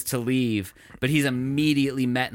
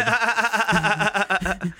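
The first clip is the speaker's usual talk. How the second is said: very slow, higher knowing drawl of unrelated; drawn-out deadpan; 7 semitones higher, much slower than usual. Acted. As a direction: stretch out unrelated like a wink. Stretches the word knowingly.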